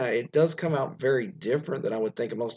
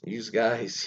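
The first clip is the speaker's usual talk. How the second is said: Philadelphia "youse guys"; Philadelphia accent. Shown as a demonstration. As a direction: say "you" as "youse", with an added S, Philly-style. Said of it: "Philadelphia always add S's for things".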